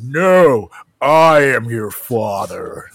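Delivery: slow, low, deliberate Vader line; drawn-out villain reveal, low; Darth Vader quote. Retold or imitated. Host correcting the quote, slow Vader voice. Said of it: "that's not even what he says".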